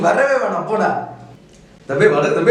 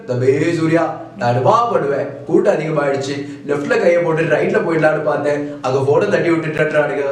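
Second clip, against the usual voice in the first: Vijayakanth impression; 3 semitones lower than usual. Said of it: "சொல்லிருக்காரு captain".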